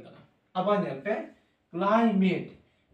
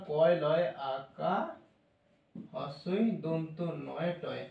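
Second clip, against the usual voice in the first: slow spelling; 3 semitones lower, 4 dB quieter, much slower than usual. Shown as a demonstration.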